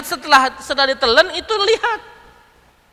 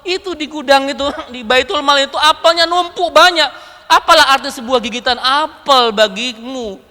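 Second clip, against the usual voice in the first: protesting wife; 4 semitones higher than usual. Retold or imitated. Wife protests over harsh scolding.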